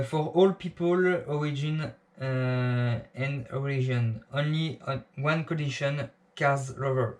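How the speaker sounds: English slogan read slowly with a heavy French accent. Real, not acted. Vlogger reading an English slogan to viewers, strong French accent. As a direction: spell out the English words in a thick French accent. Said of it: "désolé pour mon accent magnifique d'anglais".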